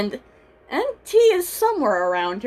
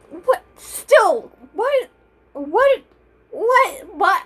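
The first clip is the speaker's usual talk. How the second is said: confused; 8 semitones higher, much slower than usual. Acted. Confused repeated what in character.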